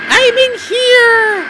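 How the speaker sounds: very high, stretched mock call; put-on calling voice. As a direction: call out loudly in a silly falsetto. Playing someone calling Jessica.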